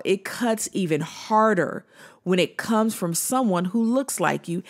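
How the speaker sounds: running straight through at an everyday pace; brisk, without pauses for emphasis; said too fast. Real, not acted. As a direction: say it in one quick, unbroken flow. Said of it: "I think I said that too fast".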